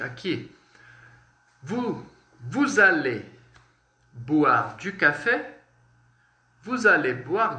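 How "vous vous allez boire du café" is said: slow dictation. Shown as a demonstration. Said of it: "slow teaching demo of a sentence".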